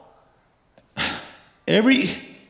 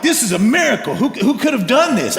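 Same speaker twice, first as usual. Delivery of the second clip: higher-pitched amazed outburst; amazed excitement; 4 semitones higher than usual. Acted. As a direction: marvel excitedly at a miracle. Peter acts out amazement at catch.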